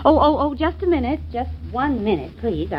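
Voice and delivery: put-on flustered, scatterbrained old lady; dotty old lady. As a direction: dither and fuss like a forgetful old lady. Mary stalls the waiter, dithering.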